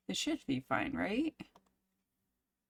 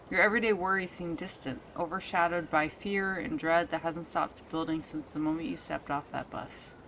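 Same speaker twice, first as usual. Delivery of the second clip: story narration. A narrator's reading. Reads long narration.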